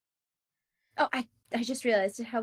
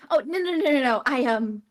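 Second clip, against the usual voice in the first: blushing and stammering no; flustered denial. Acted. Althea flustered by the headmistress, stammering denial. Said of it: "she's gonna blush bright red, saying".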